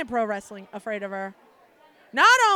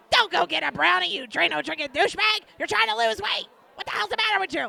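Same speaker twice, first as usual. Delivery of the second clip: higher, loud mock telling-off; mock scolding; 5 semitones higher, 4 dB louder than usual. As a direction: scold her in a hammed-up way. Friend scolding on the phone.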